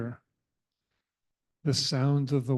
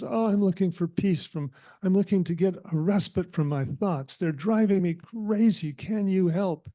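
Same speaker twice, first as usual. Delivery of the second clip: acted plea, a little higher; distressed monkey; 4 semitones higher than usual. Monkey begging the cat for relief from his thoughts, mildly distressed. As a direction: plead as a frazzled monkey, lightly acted. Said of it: "I can see you're in distress".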